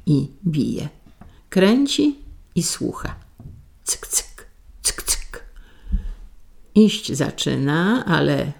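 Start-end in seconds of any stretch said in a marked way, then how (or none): 3.8-5.4 voiceless, very soft clock ticks; whispered ticking. A narrator's reading. Wife winding the mysterious clock, whispered ticking sound. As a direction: tick like clockwork, all whisper.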